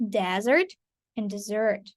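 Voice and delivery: "desert" stressed up front, "dessert" on its end; contrasted word stress. Shown as a demonstration. Teacher showing learners two different words, contrasted word stress. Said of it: "absolutely two different words".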